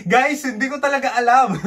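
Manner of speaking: high, loud, laughing confession; laughing panic. Retold or imitated. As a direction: laugh out your helplessness. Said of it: "sabi ko". (natatawang pagsuko)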